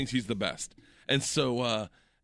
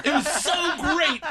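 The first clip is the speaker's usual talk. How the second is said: slow words through laughter, higher; laughing; 11 semitones higher, 4 dB louder, slower than usual. Real, not acted. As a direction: laugh it out slowly, pitched up. Laughing while telling.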